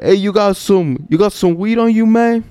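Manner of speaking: high-pitched, pushy call-out; loud shout. Retold or imitated. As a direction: imitate a guy hollering at strangers. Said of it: "just shouts at him kinda, like, loud".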